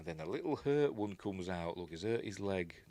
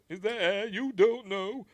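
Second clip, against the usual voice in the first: much higher and louder panicky yelp; freaking out; 12 semitones higher, 5 dB louder than usual. Retold or imitated. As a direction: shriek the warning in a frightened rush. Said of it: "Guy again freaks out".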